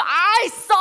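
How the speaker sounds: high, loud yuck at bitter taste; disgusted cry. Acted. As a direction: spit it out in disgust. Spitting out bitter water.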